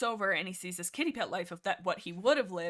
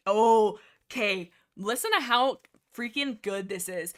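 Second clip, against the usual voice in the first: excited; 6 dB louder, slower than usual. Real, not acted. Excited to share a quote.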